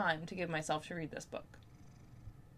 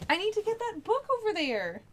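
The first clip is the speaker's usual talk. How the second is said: much higher, sing-song plea to the dog; pleading pet voice; 11 semitones higher than usual. Real, not acted. Owner pleading with her dog to let her reach the book, high sing-song.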